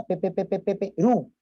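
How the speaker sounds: pe pe pe pe stutter before Perú; stuttering demo. Shown as a demonstration. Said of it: "repetitivas de sílabas iniciales".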